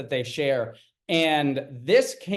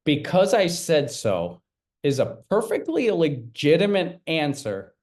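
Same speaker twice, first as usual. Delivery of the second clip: Bill Maher tone; 2 semitones higher than usual. Retold or imitated. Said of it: "with his Bill Maher tone".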